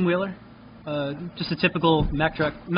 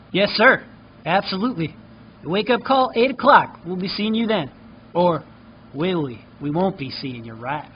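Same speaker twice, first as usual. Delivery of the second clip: eager hotel clerk. Acted. Clerk voiced by GM.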